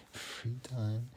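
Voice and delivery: laughing, ironic with a rising end. Real, not acted. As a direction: scoff at the idea of free time. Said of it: "It wasn't really free".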